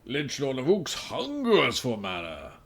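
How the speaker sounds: lightly voiced undead king. Callback in lich voice.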